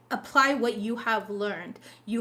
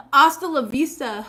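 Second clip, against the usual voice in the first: loud mock farewell; 4 semitones higher, 9 dB louder than usual. Real, not acted. Blocking the commenter.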